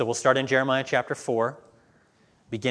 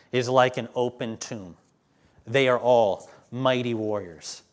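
scripture reading. Acted. Preacher reading Jeremiah to the church, measured. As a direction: read it out steadily, building.

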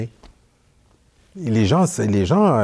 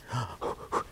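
a sharp voiceless gasp of surprise; startled gasp; 14 dB quieter than usual. Retold or imitated. Imitating the surprised cyclist with a gasp. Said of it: "il était surpris".

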